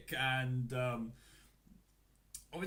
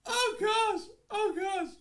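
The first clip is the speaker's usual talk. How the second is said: laughing; 7 dB louder, slower than usual. Real, not acted. Recovering from laughing fit.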